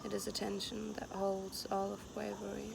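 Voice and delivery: even, unhurried poem recital; poem reading. Acted. Poet reads the text written while hiking, unhurried recital. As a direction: leave long pauses between short lines.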